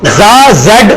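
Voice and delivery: "زا، زیڈ" with a buzzing, sibilant z; tongue behind the teeth, let "زا" whistle; sharp English-style z in "زا"; whistling z. Shown as a demonstration. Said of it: "اس میں سیٹی کی آواز آتی ہے".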